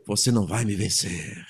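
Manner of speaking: low, quiet horror movie voice; low menacing horror-film growl. Retold or imitated. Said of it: "Aquela voz de filme de terror".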